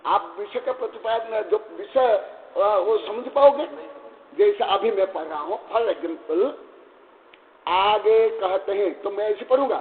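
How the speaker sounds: ordinary delivery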